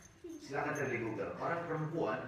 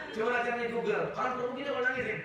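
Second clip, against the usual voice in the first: much higher and louder, fast; excited; 12 semitones higher, 6 dB louder, faster than usual. Real, not acted. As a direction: burst out excitedly. (bersemangat, suara tinggi dan keras)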